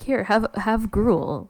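slow, drawn-out cult leader offering gruel. Retold or imitated. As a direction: play a smug cult leader, slowly. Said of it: "cult leaders are always like".

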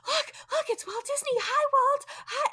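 put-on high, squealing child's voice; excited little girl. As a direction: gush like an eight-year-old spotting her hero. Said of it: "she went".

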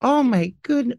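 very slow, then rising oh my goodness; disbelieving oh my God. Real, not acted. Friend recalls the awful photo, slow rising disbelief. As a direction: drag it out, then squeal up.

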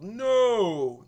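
sharp high shouted no; yelled no. Retold or imitated. Crew yells at him not to drink. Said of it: "And then they yelled".

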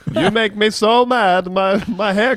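a housewife neighbor accent, hammed up; hammy vague Eastern European accent; mock angry neighbor accent. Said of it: "I don't know what accent this is".

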